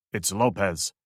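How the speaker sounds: a hint of the dead guard's accent; imitating Lopez. A narrator's reading. Drake faking the dead guard on the radio, lightly imitated. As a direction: lightly mimic the dead man's inflection. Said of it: "imitating the man's accent and tonal".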